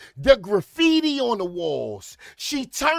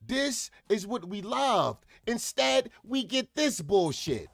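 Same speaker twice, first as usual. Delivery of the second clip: disappointed; 7 dB quieter than usual. Real, not acted. Disappointed aside to Carlissa.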